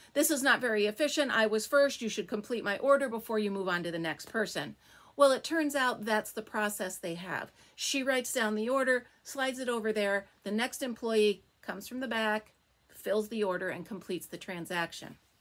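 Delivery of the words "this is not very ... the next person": plain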